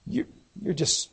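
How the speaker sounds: soft, low, syrupy gushing; mock-sweet flattery, laid on softly; sappy, syrupy. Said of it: "it's so sappy and syrupy".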